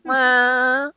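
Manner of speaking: high rising cat meow; nervous cat voice. Retold or imitated. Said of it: "then we start hearing".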